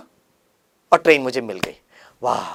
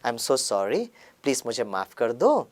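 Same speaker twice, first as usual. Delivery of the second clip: soft, lower, gentle sorry; loving apology; 4 semitones lower, 5 dB quieter than usual. Shown as a demonstration. The better answer he could have given the driver, softer. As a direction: apologize sweetly. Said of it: "बड़े प्यार से बोल".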